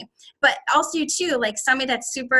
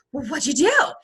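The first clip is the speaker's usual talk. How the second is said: eager, curious question; intrigued phone friend, mimicked; curious listener. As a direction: play the friend dying to hear the news. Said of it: "and they're just like".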